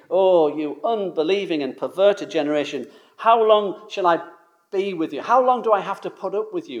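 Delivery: voicing an exasperated Jesus, the pitch rising; a preacher acting out Jesus's upset scolding; upset rebuke. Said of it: "I mean, he's really upset there".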